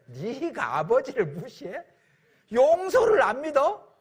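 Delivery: a father scolding the doubting son; stern scolding father. Acted. Father rebuking son who doubts his forgiveness, angry.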